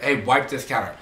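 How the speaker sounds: blunt mock command, no please; curt order. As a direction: bark it like a bossy coworker. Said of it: "They're like".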